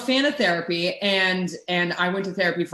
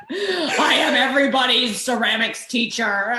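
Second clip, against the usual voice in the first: mock teacher voice; 3 semitones higher than usual. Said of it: "You're just like".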